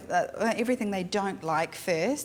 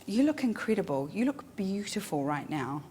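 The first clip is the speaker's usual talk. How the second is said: sincere compliment. Shown as a demonstration. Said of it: "look in somebody's eyes and say".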